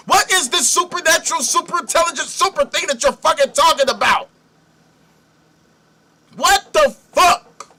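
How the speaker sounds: high-pitched, incredulous rant; exasperated outburst. Real, not acted. Host challenging absent Deborah over her Lord claims, exasperated outburst. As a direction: demand an answer, pitch jumping way up.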